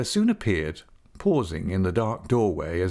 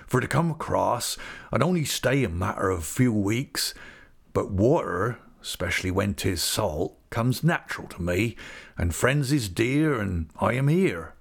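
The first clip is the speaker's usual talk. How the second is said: rustic English dialect, plain-spoken and friendly; homely old countryman. Acted. Old visitor explains his long sea crossing, homely rustic voice. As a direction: explain it like a simple old seafarer. Peggotty tells of his voyage.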